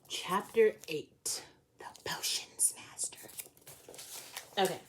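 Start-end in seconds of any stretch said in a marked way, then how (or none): 0.1-3.2 slow, whispery title reveal; hushed chapter title. A narrator's reading. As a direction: announce it slowly in a mysterious whisper.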